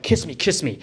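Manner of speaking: lightly imitated camp, sing-song plea; a hint of a flirty demon voice, barely put on; flamboyant voice. Demon voice in sleep paralysis dream, lightly imitated camp. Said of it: "in a very gay voice".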